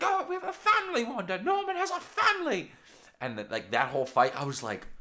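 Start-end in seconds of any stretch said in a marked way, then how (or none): 0.0-2.7 very high, loud, pleading voice; hammed-up high voice pleading for the family; high pleading Vision. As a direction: squeak it out like a desperate husband.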